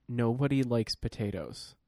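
slow, sighing mock repeat of his claim. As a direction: parrot it back with a weary sigh.

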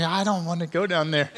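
reluctant laughing whine; mock reluctant husband, laughing; whiny refusal. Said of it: "And I'm like".

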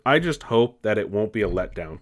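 ordinary delivery

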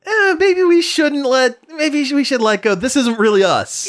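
imitating a company getting cold feet; hesitant studio voice. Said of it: "Marvel was like".

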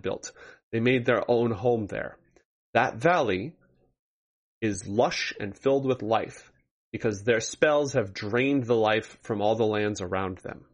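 grave ancient myth telling. Acted. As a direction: tell it like an old legend. GM recounts ancient history of Cryas.

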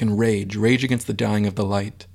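lightly dramatic reading of Dylan Thomas; poetry recital. Retold or imitated. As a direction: recite it with mock grandeur. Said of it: "It's Thomas".

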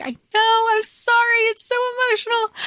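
high, fast, choked-up apology; lightly voiced tearful Draco; emotional Draco apology. Draco's apology retold in love story.

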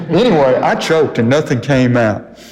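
chuckling through the words; amused self-mocking laugh in the voice. Real, not acted. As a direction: laugh it out at yourself, sheepish. Laughing at his own choke.

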